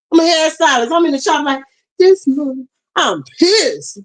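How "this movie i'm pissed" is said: tearful. Real, not acted. Upset recalling Katrina coverage.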